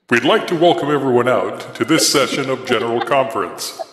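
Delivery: solemn church prophet voice; mock biblical prophet. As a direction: announce it like a prophet at conference. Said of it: "my prophet voice slightly".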